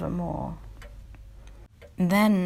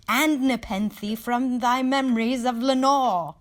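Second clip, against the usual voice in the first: crying out; 6 semitones higher, 6 dB louder than usual. Acted. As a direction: beg the bird in a rising outcry. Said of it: "I cried".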